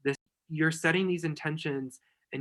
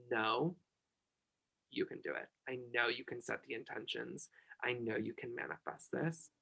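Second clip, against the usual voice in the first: much softer, hushed encouragement; soft reassurance; 2 semitones lower, 9 dB quieter than usual. Real, not acted. Friend soothing a tearful host, softly hushed. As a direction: ease her into belief gently.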